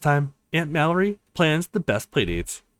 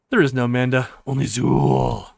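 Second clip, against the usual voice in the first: sinister AI; 3 dB louder than usual. Acted. Phone AI reveals sinister identity.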